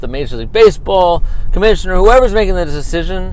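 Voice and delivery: fed-up outburst. Real, not acted. Host telling critics and the league off, heated outburst. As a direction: tell them all off, building heat. Host's mock-furious tirade at critics.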